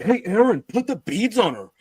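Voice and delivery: lightly acted ghost hunter giving orders; mock urgent order. Voices investigator ordering his crewmate.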